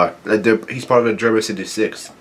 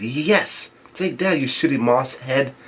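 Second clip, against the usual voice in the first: hushed little cheer of triumph; excited gloating; 2 semitones higher, 5 dB quieter, slower than usual. Acted. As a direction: celebrate over a rival, kept fairly soft. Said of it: "Sanji gets really excited".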